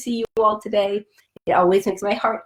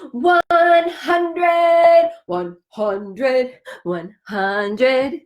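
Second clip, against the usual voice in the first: triumphant count; much slower than usual. Acted.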